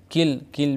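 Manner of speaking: किल with a short ई sound; English word kill. Shown as a demonstration. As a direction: say किल crisply. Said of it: "मिसाल देखिए". (किल, ज़ेर की आवाज़ के साथ)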